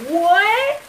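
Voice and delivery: sharp high gasp of disbelief; shocked. Real, not acted. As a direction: react in total disbelief. Shocked reaction to missing chicken.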